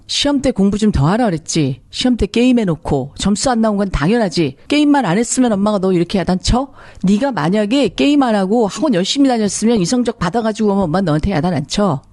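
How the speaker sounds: mildly acted nagging mother; a touch of exasperated reproach; scolding parent. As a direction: imitate a parent blaming the child. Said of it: "피해의식에 쩌든 사람들이 자식을 훈계할 때".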